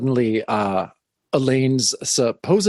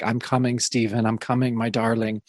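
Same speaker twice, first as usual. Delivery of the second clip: hypnotized; 2 semitones lower, 3 dB quieter than usual. Retold or imitated. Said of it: "Elaine is completely hypnotized".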